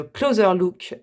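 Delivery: English words slowly, with a French accent. Real, not acted. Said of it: "pardon de mon accent". (accent français en anglais, lentement)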